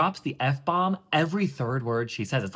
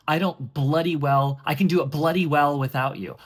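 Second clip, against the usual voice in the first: a touch of defiance, lightly voiced; defiant; 4 dB louder than usual. Eliza defying Henry in a fight, a mild, defiant edge. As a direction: throw "bloody" like a dagger, mildly. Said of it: "that word bloody, now that's a dagger".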